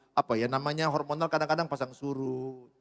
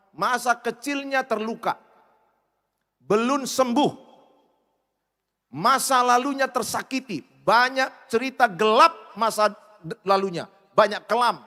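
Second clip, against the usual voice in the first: khotbah lantang, lambat dan penuh tekanan; preaching; 5 semitones higher, 6 dB louder, slower than usual. Acted. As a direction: serukan luka masa lalu dengan lantang. Preaching at full force. (suara pengkhotbah yang keras dan lambat)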